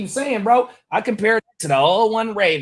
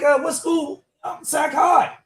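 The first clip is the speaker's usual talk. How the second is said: much higher, girlish retold voice; imitated young lady; 10 semitones higher, slower than usual. Retelling a chat with the young ladies working there, imitated high voice. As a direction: mimic the shop girl up high. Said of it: "the little young ladies that's in there working".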